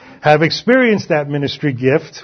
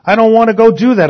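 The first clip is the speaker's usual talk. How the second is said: reluctant objection; 6 semitones higher, 6 dB louder, faster than usual. Retold or imitated. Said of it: "Some may say".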